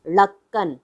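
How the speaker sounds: "ढक्कन" begun with a flapped l-like ढ़; dotted ढ़. Shown as a demonstration. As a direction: flick the tongue to start "ढक्कन", no hard stop. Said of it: "इसका उच्चारण क्या होगा".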